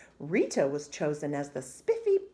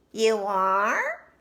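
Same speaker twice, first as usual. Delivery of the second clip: louder, astonished question; surprised classmate; 3 semitones higher, 8 dB louder than usual. A narrator's reading. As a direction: gasp it out in disbelief. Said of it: "said Victoria".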